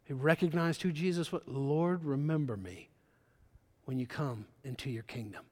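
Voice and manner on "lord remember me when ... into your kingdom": lower, softer and fading, humble; soft plea. Retold or imitated. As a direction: murmur it like a dying man's plea. Thief's plea, repeated softly.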